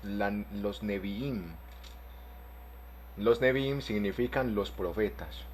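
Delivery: "Nevi'im" said slowly as ne-BI-im, the long I stressed; careful slow pronunciation. Shown as a demonstration. Teacher modelling the word for the class, slow and careful. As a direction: draw out "Nevi'im" so they hear the stressed I. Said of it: "con tilde en la última I".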